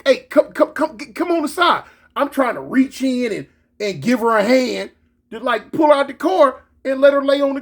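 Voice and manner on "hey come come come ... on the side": urgent higher-pitched coaxing orders; retold hollering. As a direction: call someone out in stammered repeats.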